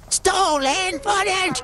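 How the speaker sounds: high, stretched-out call; drawn-out exclamation. Real, not acted. Player spotting stolen footage, drawn-out exclamation. Calls out over the game.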